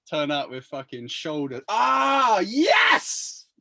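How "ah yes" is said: loud exasperated yell at himself; frustrated shout. Real, not acted. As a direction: blurt it out in frustration. Frustrated at forgetting word.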